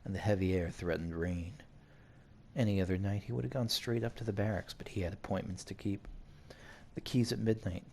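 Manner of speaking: measured read-aloud narration; story narration. A narrator's reading. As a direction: narrate it evenly like an audiobook. Reads game story aloud.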